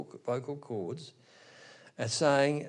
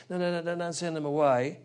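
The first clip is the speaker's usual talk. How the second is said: quick-fire mock protest, raised pitch; lightly acted plea, higher than usual talk; pleading mediator; 5 semitones higher than usual. Man mediates between the demons and the Lord, lightly acted pleading. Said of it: "he's acting as a mediator".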